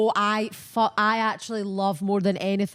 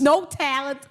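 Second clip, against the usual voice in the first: mock sneer; 5 semitones higher than usual. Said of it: "Douglas's onslaught".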